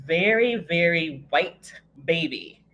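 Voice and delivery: put-on "very, very white baby" slowed, falling on white; emphatic contrast. The shock of seeing the newborn, slow emphatic very. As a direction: drag out the "very" for the surprise.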